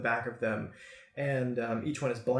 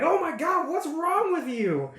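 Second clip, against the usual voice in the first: high, loud, alarmed yell; freaked-out outcry; 4 dB louder than usual. Acted. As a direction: cry out in shocked outrage. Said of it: "they just kinda freak out".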